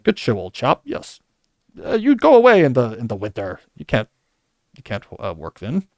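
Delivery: a light put-on English accent, jokey; mock English accent. Boss granting Fleming winters off, mock English accent. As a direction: imitate a British boss in a half-serious English accent. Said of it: "spot on English accent".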